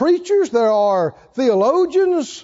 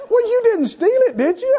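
much higher, laughing jab; laughing mock accusation; 9 semitones higher than usual. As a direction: tease as if accusing of theft. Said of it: "mock accusation".

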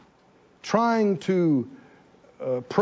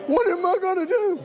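high, whiny worried voice; mocking a panicked churchgoer; fretful believer; 9 semitones higher than usual. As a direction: whine it like a defeated, worried person. Mimics the worried listener's reply.

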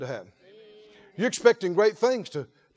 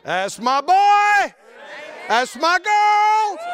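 slow, loud, much higher proud cheer; proud father shout; 11 semitones higher, 6 dB louder, much slower than usual. Retold or imitated. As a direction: cheer your child on at full volume.

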